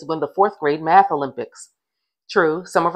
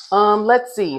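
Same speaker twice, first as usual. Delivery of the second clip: higher, drawn-out pretend thinking; mock pondering; 6 semitones higher, 4 dB louder, slower than usual. A narrator's reading. Class clown stalling on the teacher's question, mock pondering. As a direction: play at puzzling it over, for fun. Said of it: "like he was thinking hard".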